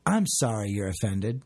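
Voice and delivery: low, insincere sorry; mock non-apology. Giving an example of the non-apology, insincere. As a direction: imitate a grudging apology. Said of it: "the non-apology is sort of like".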